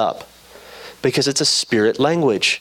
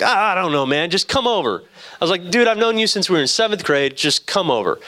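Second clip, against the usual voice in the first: higher-pitched, mildly exasperated retold plea; exasperated coaxing; 5 semitones higher than usual. Friend phoning a hesitant buddy to come over, exasperated coaxing. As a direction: coax a reluctant buddy, pitch jumping up.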